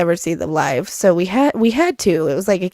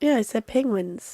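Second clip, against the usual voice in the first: sick voice; 9 dB quieter than usual. Real, not acted. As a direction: voice rough from a cold. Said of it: "Don't judge my sick voice".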